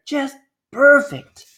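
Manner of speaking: high, drawn-out delighted mayor; slow gushing mayor. Acted. Mayor gloating over the crash, high and slow. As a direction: savour each word like a proud mayor.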